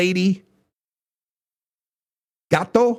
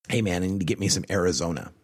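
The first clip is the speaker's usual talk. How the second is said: mock stoner voice; 10 semitones lower, 5 dB quieter, faster than usual. Mock stoner asking for weed.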